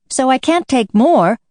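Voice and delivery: Alice offended by the March Hare. Acted. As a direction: sound a little affronted. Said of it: "in an offended tone".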